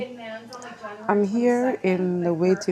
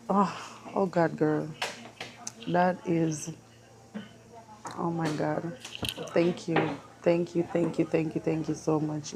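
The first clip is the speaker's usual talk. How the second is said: close to tears; 7 dB quieter than usual. Real, not acted. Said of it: "I feel so emotional right now".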